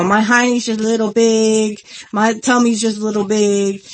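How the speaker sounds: put-on half-hearted go at a wrestler's promo accent; badly faked Dusty Rhodes accent; attempted Dusty Rhodes accent. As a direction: lightly imitate Dusty Rhodes's accent, not very well. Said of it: "I can't do the accent".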